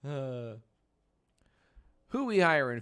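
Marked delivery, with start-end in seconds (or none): 2.1-2.8 hype shout. Acted. Repeats hype question.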